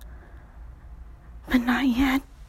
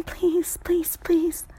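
pleading whisper; much slower than usual. Acted. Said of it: "Just whispering".

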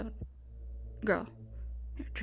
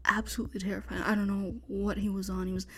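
hushed frightened whispering; tense whisper. Acted. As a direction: whisper urgently, hiding from killer.

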